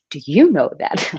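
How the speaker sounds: a hint of a gentle children's TV host; Mister Rogers. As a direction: lightly mimic a kids' show host. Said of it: "I sound like Mister Rogers".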